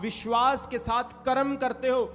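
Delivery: forceful preaching. Acted. Pastor urging the congregation to act in faith, slow and forceful. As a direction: declare it with weight to the church.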